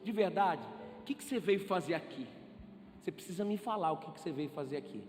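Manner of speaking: gentle pastor question. Retold or imitated. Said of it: "teve um discernimento do Senhor e falou assim".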